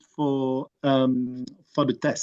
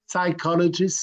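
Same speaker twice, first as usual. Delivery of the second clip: "Psychologist" said firmly with a French accent, stress on the last syllable; 4 semitones higher than usual. Real, not acted. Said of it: "sorry for the French accent, it's terrible".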